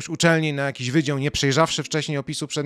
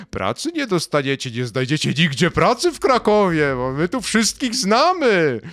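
mock threat; 2 semitones higher than usual. University scaring students and former staff, mock threatening. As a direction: threaten like an institution, hammed-up. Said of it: "Uniwersytet Jagielloński w Krakowie straszy".

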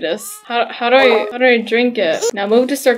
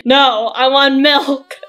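mock tantrum; slower than usual. Toddler tantrum over milk.

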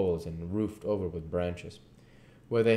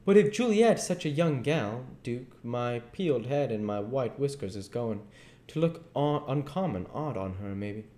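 put-on doubtful old king; 6 semitones higher than usual. King voiced in the story.

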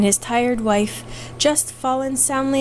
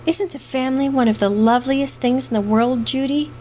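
eager cry; 2 semitones higher than usual. Acted. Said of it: "cried Pat".

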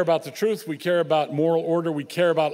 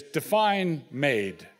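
mock sly thought; 2 semitones lower, much slower than usual. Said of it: "thought bubble over your head is".

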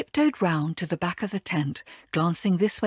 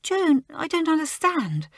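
sobbing; 8 semitones higher than usual. A narrator's reading. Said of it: "sobbed Joan".

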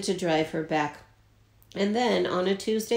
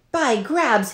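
high, loud exclamation; captain roars, spotting the rival ship; roared; 5 semitones higher, 3 dB louder than usual. Acted. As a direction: burst out with a roar. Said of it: "he roared".

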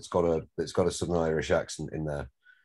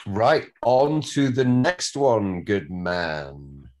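rallying call; 3 semitones higher, 4 dB louder, much slower than usual. Real, not acted. Director moves the cast on to the next scene, rallying. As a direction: call it out loud and drawn-out.

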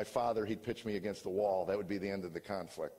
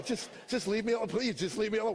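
higher, louder pleading shout; exasperated yell; 12 semitones higher, 4 dB louder than usual. Retold or imitated. Husband fleeing an argument, yelling at his wife to leave him alone. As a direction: push her away with the voice, strained and loud.

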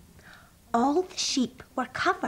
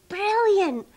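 high, loud exclamation; delighted cry; 10 semitones higher, 6 dB louder than usual. Acted. Rabbit just off the slide, exclaiming high and loud. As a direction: burst out with glee.

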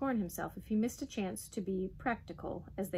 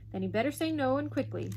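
higher, impatient snap; snapping; 5 semitones higher, 4 dB louder than usual. A narrator's reading. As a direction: cut in with a testy order. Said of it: "snapped the Duke".

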